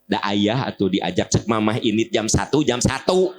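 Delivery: lightly acted nagging; mild wifely complaint. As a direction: grumble at your husband, rising at the end. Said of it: "ibu ngomel ka salaki".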